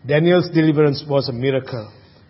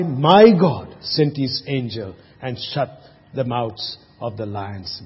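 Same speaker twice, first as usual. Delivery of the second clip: put-on slow, low old man from the den; old man's voice; 6 semitones lower, 4 dB quieter, slower than usual. A narrator's reading. Preacher voicing old Daniel from the lions' den, slow and low.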